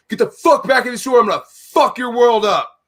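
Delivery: high, heated retold threat; angry threat. Neighbor threatening the store manager, retold angry yell. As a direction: imitate a man blowing up at you.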